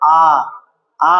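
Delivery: long open আ, each one separate; drawn-out vowel demo. Shown as a demonstration. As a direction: practise আ slowly with tongue low. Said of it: "practical কর". (আলাদা করে টানা আ)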